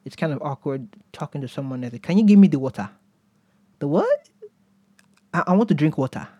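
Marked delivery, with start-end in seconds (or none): 2.0-2.9 put-on louder request in a non-American accent. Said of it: "learned how to speak like an American". 3.8-4.3 high-pitched baffled question. Acted. Baffled American listener acted out. 5.3-6.3 put-on hesitant repeat in a non-American accent; non-American accent, water as "wotah". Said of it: "learned how to speak like an American".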